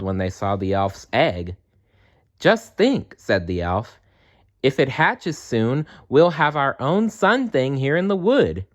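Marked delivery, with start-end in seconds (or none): 2.4-3.1 very high, thrilled; excited elf. Acted. Elf dreams of a sun hatching in the wood, very high and thrilled. 4.6-8.7 very high, thrilled; excited elf. Acted. Elf dreams of a sun hatching in the wood, very high and thrilled.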